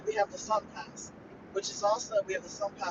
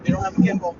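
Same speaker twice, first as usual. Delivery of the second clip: on a bumpy road; 4 semitones lower, 11 dB louder, faster than usual. Real, not acted. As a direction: voice jolted by bumps. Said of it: "Sorry about the bumps".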